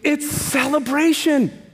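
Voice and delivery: high, loud, slow proclamation; preaching shout. Real, not acted. Preacher to congregation, loud slow proclaiming shout. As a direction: cry it out to the whole congregation.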